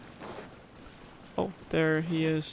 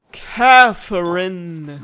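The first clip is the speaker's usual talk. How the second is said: calling out; 12 dB louder, much slower than usual. Real, not acted. Calling out for game character.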